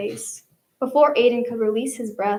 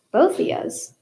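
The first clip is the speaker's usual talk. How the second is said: surprised cook; 5 semitones higher than usual. Acted.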